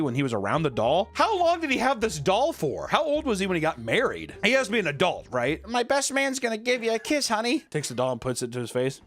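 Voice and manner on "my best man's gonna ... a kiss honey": higher, lightly voiced; a hint of a creepy husband; mock groom. Gene offering his doll's kiss to his wife.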